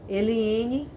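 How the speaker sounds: stern name call with authority; serious correcting father. Retold or imitated. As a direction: imitate a father about to reprimand. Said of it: "Aquele tom quando meu pai falava".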